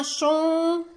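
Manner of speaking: "chanson" as a drawn-out high chan, pause, then son; syllable by syllable. Shown as a demonstration. Teacher showing two syllables, syllable by syllable. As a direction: hold the first syllable of "chanson" before the second. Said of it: "Deux syllabes".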